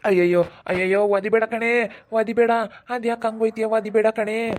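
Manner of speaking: yelping in pain. Acted. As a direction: cry out as she kicks you. Kicked awake, begging mother stop. (ಒದೆತಕ್ಕೆ ನೋವಿನಿಂದ ಕಿರುಚುವ ಬೇಡಿಕೆ)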